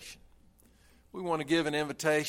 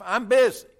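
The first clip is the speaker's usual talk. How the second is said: annoyed snap; 7 semitones higher, 8 dB louder than usual. Acted. Father snaps at son.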